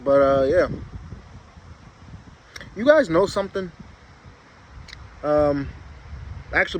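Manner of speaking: talking around a packed lip; words slurred by a wad of dip; lip full of dip. Real, not acted. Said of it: "I already got my lip packed".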